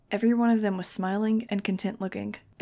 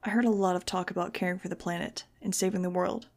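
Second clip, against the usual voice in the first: usual speaking voice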